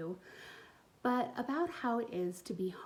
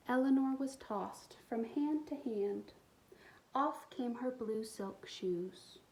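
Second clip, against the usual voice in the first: put-on expressive read-aloud for young kids; storybook reading; 3 semitones higher than usual. A narrator's reading. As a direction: tell the story warmly to little listeners. Reads picture book aloud.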